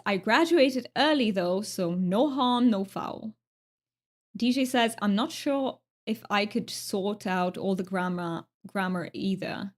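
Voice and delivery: lightly put-on British accent. Streamer reading chat aloud, attempted British accent. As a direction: read it out in an amateur British accent. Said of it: "trying to talk with a British".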